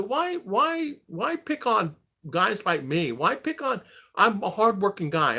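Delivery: high, whiny protest; mock plea. Pleading his work record to the sheriff, high and whiny.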